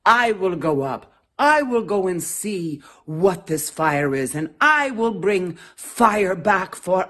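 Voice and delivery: loud, proud volunteer; bold antelope. Acted. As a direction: puff up and promise the whole jungle.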